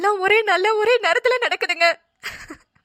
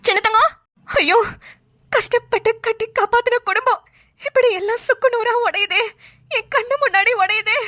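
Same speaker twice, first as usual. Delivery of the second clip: tearful lament. Acted. Mother laments family breaking.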